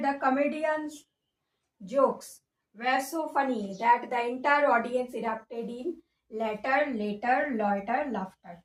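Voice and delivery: drawn-out, very slow reading; slow question read. Shown as a demonstration. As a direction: read the sentence slowly for the class. Reads question, tries options aloud. (ধীরে ধীরে প্রশ্ন পড়া)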